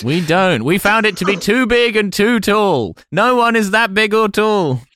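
prim corporate voice scoffing, slowing down; haughty spokesperson. Pretend. Continues as newspaper spokesperson.

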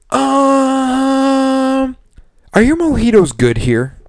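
high, airy put-on customer voice; mocking customer voice. Bartender mocking a customer asking about mojitos, high airy voice. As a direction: squeak it out like a clueless tourist.

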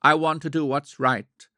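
an urgent, understated cry of despair. A narrator's reading. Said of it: "His despairing cry".

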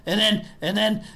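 put-on drunk goblin barkeep.

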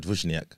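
"Wozniak" as Polish "VOOSH-nyak"; accented pronunciation. Shown as a demonstration. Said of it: "you would put the accent on".

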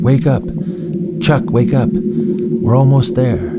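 eager call. Acted. David rousing Chuck on arrival, eager high call. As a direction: urge him awake, bursting with news. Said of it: "he cried eagerly".

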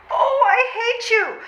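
angry shout. Acted. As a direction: throw it at him in a fit. Angry outburst at suitor.

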